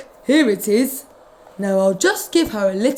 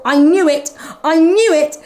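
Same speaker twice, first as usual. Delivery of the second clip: fretful cat thought; 6 semitones higher, 5 dB louder than usual. Acted. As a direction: panicky cat, knowing the worst. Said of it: "Mog thought".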